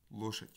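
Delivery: "loshet" with the unstressed vowel reduced to a schwa. Shown as a demonstration. Lecturer repeating the Russian example for students, "loshet" with a schwa. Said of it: "où là vous avez un shfa".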